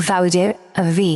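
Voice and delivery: ভি with its consonant pushed clearly out; articulated letter demo. Shown as a demonstration. Teacher shows learners জাল, ভি carefully articulated. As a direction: push out the first sound of ভি. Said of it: "যেভাবে বের করে উচ্চারণটা করবেন".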